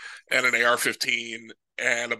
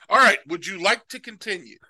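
game announcer voice; 6 semitones higher, 4 dB louder than usual. Pretend. Mock game prompt.

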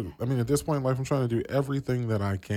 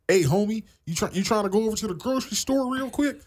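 mock West Coast homie voice, higher and louder; West Coast homie accent; 13 semitones higher, 4 dB louder than usual. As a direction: ham up a laid-back Los Angeles homie accent. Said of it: "people out here who be like".

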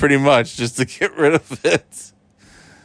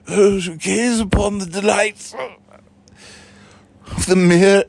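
Dumbledore voice; 3 semitones higher than usual. Pretend. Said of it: "it's the Dumbledore".

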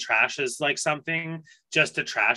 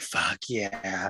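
emphatic; 6 semitones lower, 7 dB quieter than usual. Retold or imitated.

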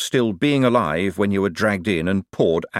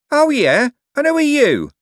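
loud, high scornful comeback; belligerent challenge; 7 dB louder than usual. A narrator's reading. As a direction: throw it back at him, pitched way up. Hostler squares up to shouting man.

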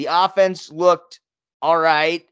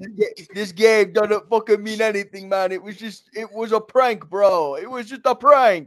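prank reveal laughing; 5 semitones higher, 5 dB louder than usual. Pretend. Mock defense of the loss.

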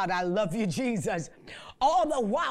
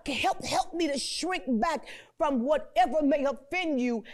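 pleading prayer; 3 semitones higher than usual. Real, not acted. Pleading prayer, shout heard.

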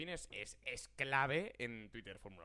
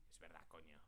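imitating Atleti fan; 9 semitones lower, 15 dB quieter than usual. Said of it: "suelta facts como aficionado del Atleti que dices".

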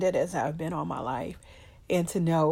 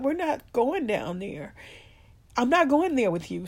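quoting firm mom; 4 semitones higher than usual. Retold or imitated. Quoting mom's firm refusal.

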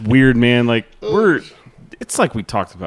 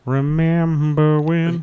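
announcer voice; 5 semitones higher, much slower than usual. Pretend. Announcing segment title dramatically.

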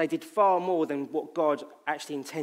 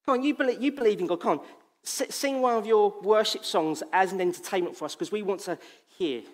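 higher, louder jeering demand; mocking taunt; 4 semitones higher, 4 dB louder than usual. Captors demanding a worship song, mocking. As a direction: goad him like a bully. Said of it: "And they mock and they joke".

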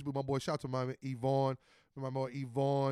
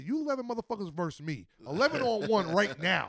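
raised, higher-pitched taunt; retold challenge; 4 semitones higher than usual. One player challenging eleven opponents, retold challenge. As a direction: call out a whole team, retelling it.

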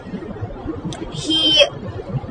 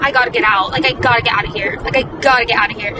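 panicked rush; 3 semitones lower, faster than usual. Retold or imitated. Panicking about escaping the date.

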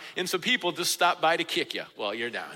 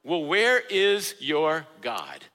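slow, lightly mocking challenge; taunting; 4 semitones lower, much slower than usual. Taunters to the downcast psalmist, slow mild taunting. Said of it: "and they're taunting".

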